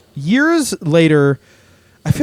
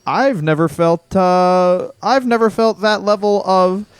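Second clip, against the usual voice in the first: lightly voiced awed friend; 6 semitones higher, slower than usual. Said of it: "my friend looked at me and he was like".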